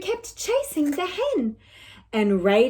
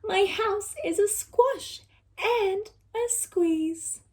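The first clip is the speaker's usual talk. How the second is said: high, pleading cry for help; a desperate old woman begging; pleading old lady; 6 semitones higher, slower than usual. Acted. Lady begs the wise old man for help, high and pleading. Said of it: "And she said".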